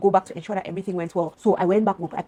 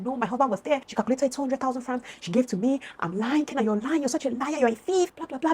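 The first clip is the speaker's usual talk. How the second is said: imitated screaming rant; 6 semitones higher than usual. Friend accusing her of lying, high imitated rant. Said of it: "she was just screaming".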